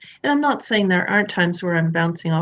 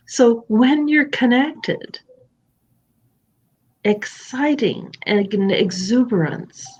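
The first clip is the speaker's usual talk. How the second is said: calm demo; 3 semitones higher, slower than usual. Shown as a demonstration. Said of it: "this is what it looks like".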